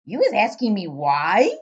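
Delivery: booming giant cry, slow. Acted. Giant correcting Sophie, loud indignant cry. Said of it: "cried the B F G".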